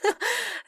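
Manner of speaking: high bright laugh; burst of laughter. A narrator's reading. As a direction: laugh out at the idea. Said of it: "рассмеялась Рискин".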